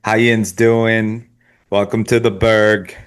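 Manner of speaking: slow, drawn-out Pennsylvania greeting; imitated western Pennsylvania twang; Pennsylvania accent. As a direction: put on a Pittsburgh, Pennsylvania accent. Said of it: "No, the Pennsylvania".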